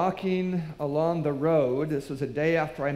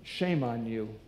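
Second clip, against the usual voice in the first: scolding; 5 semitones lower, 4 dB quieter than usual. Pretend. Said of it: "didn't need to say".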